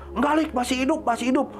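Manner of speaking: retold urgent insistence. Retold friends urgently insisting he is alive.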